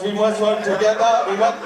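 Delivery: repetitive, robot-like South African impression; South African accent. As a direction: loop it mechanically in a mock South African accent. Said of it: "like R two D two from Star Wars".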